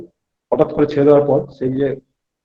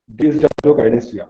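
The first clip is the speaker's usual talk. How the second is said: slow spelled-out term; 2 semitones lower, much slower than usual. Shown as a demonstration. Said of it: "মানে dyssynergia".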